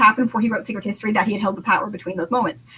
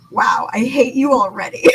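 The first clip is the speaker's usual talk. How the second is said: exasperated outburst. Acted. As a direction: drag it out like you already can't stand him. Elend reacting to Kelsier's insult.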